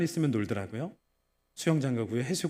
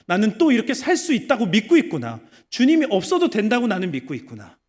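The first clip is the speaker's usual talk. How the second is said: building self-rebuke; 2 semitones higher, 6 dB louder than usual. Retold or imitated. Pastor confessing his own heart to the congregation, building from hush to loud.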